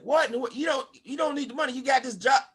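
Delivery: mock incredulous friends. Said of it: "everybody said".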